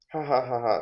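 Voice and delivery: light acted laugh for the character; a hint of a flirty giggle; mock laughing. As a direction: play a polite laugh at his jokes. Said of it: "So she's doing her laughing".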